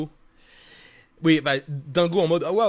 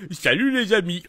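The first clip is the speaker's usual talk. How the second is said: voix de Dingo; 3 semitones higher, 3 dB louder than usual. Shown as a demonstration. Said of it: "il parle pas non plus comme s'il avait une paralysie faciale".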